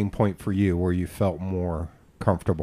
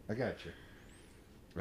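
breathless whisper, much softer, slowed way down; whispered tease; 22 dB quieter, much slower than usual. Pretend. Whispering to the guest the offer of a handkerchief. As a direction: whisper it slowly like a secret.

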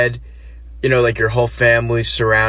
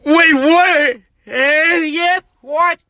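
confused what; 14 semitones higher, much slower than usual. Acted. Dying man looks up at the director, baffled. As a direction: react lost and baffled.

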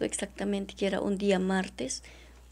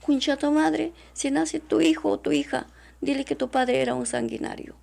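louder, higher voicing of the abuser; mock-shouted threat of the abuser; retold abuser's threat; 5 semitones higher, 5 dB louder than usual. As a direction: spit out his threat. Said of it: "él, cosa me dice".

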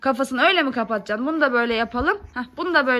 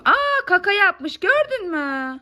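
higher, drawn-out pretend discovery; gasp-like "Aa", then stretch it out for a child; play-acted amazement, slow and high; mock surprise; 3 semitones higher, slower than usual. Play discovery in doll's diaper.

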